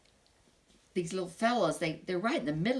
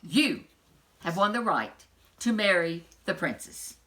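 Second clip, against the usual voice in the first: loud; 5 dB louder than usual. Acted. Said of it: "in a loud voice".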